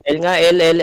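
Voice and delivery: excited shouted directions; urgent callouts. Real, not acted. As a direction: bark directions at the team mid-battle. Calling directions in a battle.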